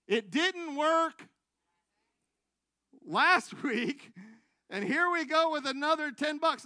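exasperated testimony build; emphatic frustration. Real, not acted. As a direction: drive the point home, deliberately. Frustrated retelling of tithing.

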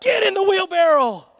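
loud, high command to one man; shouted order. Retold or imitated. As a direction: call him out over the crowd. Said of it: "he looked at a man and he said".

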